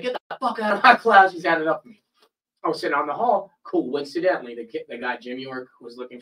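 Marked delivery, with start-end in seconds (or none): 0.0-1.3 louder, higher mock teacher outburst; imitated fed-up teacher, raised voice; retold angry dismissal. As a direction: throw the student out, half-laughing. Retold teacher throwing him out.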